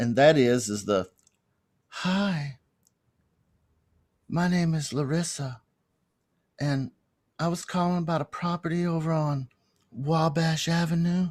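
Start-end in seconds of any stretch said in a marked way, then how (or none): 1.9-11.3 seductive, sultry, sexy female phone voice. Showing a female voice that works when calling about a property: sexy, sultry female voice. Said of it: "Like all sexy and sultry".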